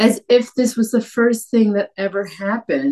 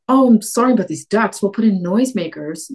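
mock corporate apology; 4 semitones higher than usual. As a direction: play a glib company brushing it off. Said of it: "oil companies to come out and be like".

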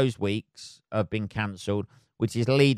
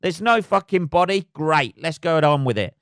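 mock cheery relief; 7 semitones higher, 5 dB louder than usual. Mock voicing himself at light switch.

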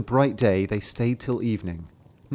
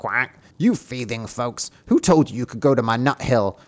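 squeaky rubber duck voice. Acted. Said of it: "a duck quacked at them".

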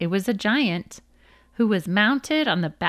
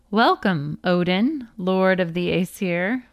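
light sing-song lilt on "Welcome, Odin". A narrator's reading. Mimir greeting Odin at the well, gently sing-song. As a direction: greet "Lord of the Aesir" with a mild lilt. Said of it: "Mimir said in a sing-song voice".

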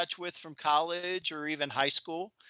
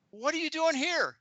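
put-on Boston accent; 12 semitones higher than usual. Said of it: "she had a Boston accent".

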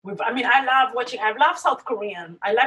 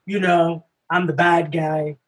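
cartoon villain; 7 semitones lower than usual. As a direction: ham it up like a moustache-twirling bad guy. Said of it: "The bad guy walk and the bad guy".

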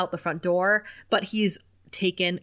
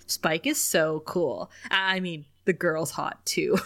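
slow, low mock awe; imitated hushed, lingering admiration; dreamy admiration; 4 semitones lower, slower than usual. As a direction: drag it out like a smitten fanboy. Acting Andrew's admiring reaction.

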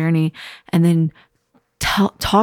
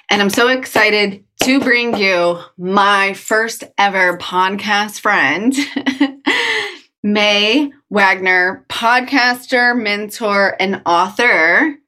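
excited; 3 semitones higher, slower than usual. Real, not acted. Excited intro of first guest.

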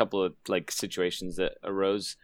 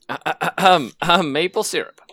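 mock Canadian Mountie; 9 semitones higher, 10 dB louder than usual. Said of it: "put my Mountie hat on here to get into character".

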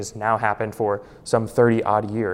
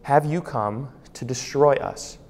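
demon's question; 2 semitones higher, slower than usual. Retold or imitated. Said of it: "but now he says".

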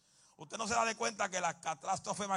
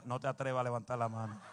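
laughing mock husband; 5 semitones lower, faster than usual. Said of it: "un marido dijo".

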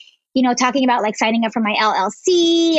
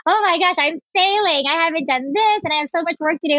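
retold fretting, higher pitch; mock-panicked inner voice, pitch raised; panicked self-talk; 5 semitones higher than usual. Entrepreneur recalls doubting herself yesterday, mildly panicked self-talk.

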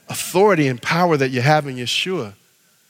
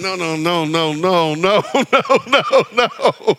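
mock teacher; 2 semitones higher, slower than usual. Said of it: "I'm sure English teachers going".

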